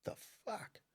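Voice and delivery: breathless whispered disbelief; hushed shocked aside; stunned whisper. Retold or imitated. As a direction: mutter it under your breath, stunned. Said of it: "And I went".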